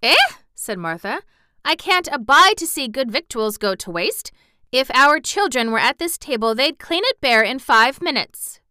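put-on chatty Yorkshire servant girl, rattling on; Yorkshire maid gossiping cheerfully; Martha's Yorkshire voice. A narrator's reading. Martha scolding waste.

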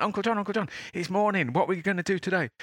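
put-on very high, bubbling child's voice; a kid who can't wait for the day; excited little boy. Logan answering his sleepy uncle, high excited child voice. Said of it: "It's like".

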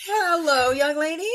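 a hint of a dad scolding; mock stern dad. Imitating Charlie greeting late Bella, mock stern. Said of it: "Charlie's like".

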